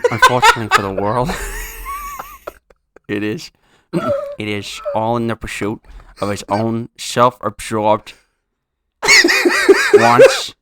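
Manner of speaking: reading through bursts of laughter; laughing while reading. Real, not acted. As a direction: giggle through the lines. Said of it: "laughing through the read".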